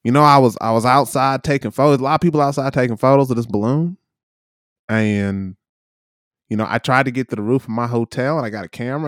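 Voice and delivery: lightly imitated Southern drawl; retold in a Southern twang; North Carolina Southern drawl. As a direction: tell it like a North Carolina local. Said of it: "real kind of North Carolina Southern drawl".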